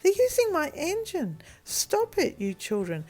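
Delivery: put-on high, loud indignant child's yell; angry shouting. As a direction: yell down at the boys to stop. Boy yells at children from window.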